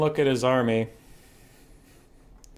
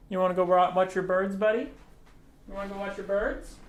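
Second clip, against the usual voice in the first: coaxing pet talk; 5 semitones higher than usual. Real, not acted.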